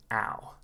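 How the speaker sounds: ow as an open ah gliding to oo; OW sound. Shown as a demonstration. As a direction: open wide into ow. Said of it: "at the top ... is the key sound".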